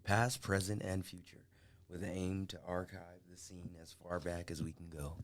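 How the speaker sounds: soft, hushed documentary read; narrator voice. Shown as a demonstration. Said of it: "I'll do it in my narrator voice".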